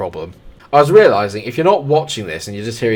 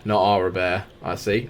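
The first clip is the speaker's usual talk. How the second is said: usual speaking voice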